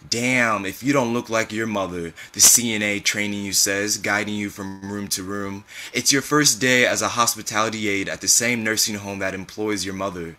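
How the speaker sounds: measured, expressive literary reading; story narration. A narrator's reading. Author reading a memoir to an audience, measured story narration. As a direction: read it as a spoken-word memoir.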